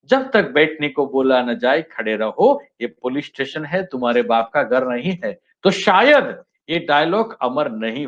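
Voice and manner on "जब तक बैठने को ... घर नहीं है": same film line read lower like a station announcer; railway announcement. Shown as a demonstration. Teacher shows the line spoiled as a railway announcement, mock announcer. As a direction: drone the warning like a platform announcement, rising line ends. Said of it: "जैसे railway station पे announcement होता है".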